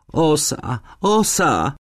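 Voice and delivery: put-on high, panicky girl's voice; frightened cry. A narrator's reading. Lonia warns that a wasp is on her, frightened.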